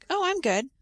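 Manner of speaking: cheerful lifted reply, full of emotion; happy tone. Shown as a demonstration. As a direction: sound genuinely happy to be asked. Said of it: "that you're actually happy".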